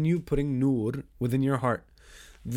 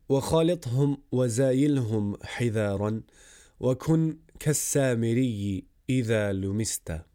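rapid verse recitation; much faster than usual. Acted. Recites Arabic verse of poem.

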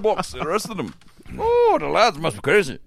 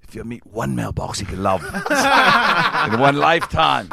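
mock Manchester accent. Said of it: "he's in prison right now going".

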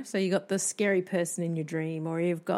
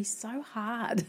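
laughing; 4 semitones higher than usual. Real, not acted. Laughing mid-sentence.

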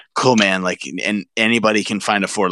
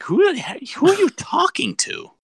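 police officer. Retold or imitated. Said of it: "Police officer's like".

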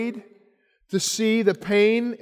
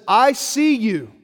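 gentle voice of Jesus. Retold or imitated. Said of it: "And Jesus says".

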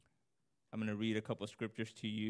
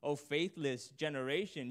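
the Lord's rebuke; 4 semitones higher, 3 dB louder than usual. Retold or imitated. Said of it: "the tone of the Lord saying".

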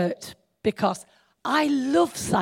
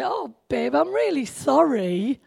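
tender apology; 3 semitones higher than usual. Pretend. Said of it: "And I want him to say".

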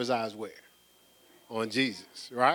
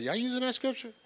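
mock incredulous question; 11 semitones higher, faster than usual. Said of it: "I was telling her, I said".

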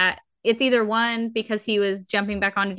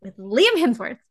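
indignant disbelief; 3 semitones higher than usual. Retold or imitated. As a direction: protest the casting in mock outrage. Acted outraged reaction to casting news.

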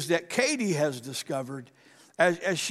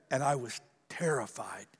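whispered fear; 6 semitones lower, 7 dB quieter than usual. Retold or imitated. Retelling friend's frightening dream.

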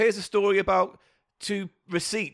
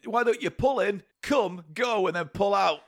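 bright, higher customer-service voice, lightly put on; mock shop greeting; 4 semitones higher than usual. Joking to her cohost, a higher fake welcome for customers. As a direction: play a cheery forecourt attendant.

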